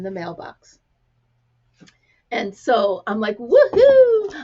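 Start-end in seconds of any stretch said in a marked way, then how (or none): 3.4-4.3 high, loud whoop of delight; excited cheer. Retold or imitated. Hearing there is a letter in the mailbox, loud excited whoop. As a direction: let out a big celebratory woohoo.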